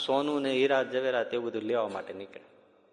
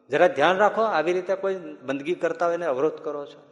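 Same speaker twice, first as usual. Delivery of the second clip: louder, higher scolding of a careless woman; angry scolding; 4 semitones higher, 4 dB louder than usual. Acted. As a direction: scold her sharply for spoiling prayer. Fakir scolds woman who bumped him. (ગુસ્સામાં ઠપકો)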